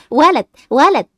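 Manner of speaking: loud joyful cry; loud happy announcement; excited announcement. Acted. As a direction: announce the good news happily. Doctor announces a boy.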